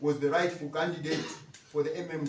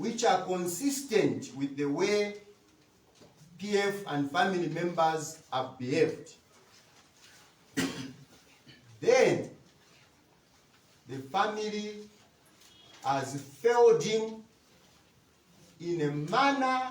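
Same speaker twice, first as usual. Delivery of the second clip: slow, measured, careful, deliberate pace; 3 dB louder than usual. Answering a question about a late president's burial, speaking slowly. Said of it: "I want to speak slowly".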